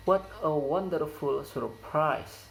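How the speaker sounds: "surprise" falls on its second syllable; exclamation that drops on the last syllable of "surprise"; falling intonation. Shown as a demonstration. Teacher models an exclamatory sentence, falling intonation. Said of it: "The falling intonation occurs".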